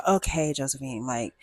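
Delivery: imitating mom's eye-roll, low and soft; exasperated mom. Mom to picky daughter at the car lot, mildly exasperated. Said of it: "So she's rolling her eyes".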